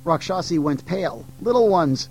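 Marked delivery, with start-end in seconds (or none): 1.4-2.1 calling out. Acted. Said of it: "she cried out".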